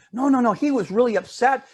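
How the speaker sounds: a hint of a nervous little girl; worried little girl. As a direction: play the good daughter fretting to her sister. Sandra voiced in the story.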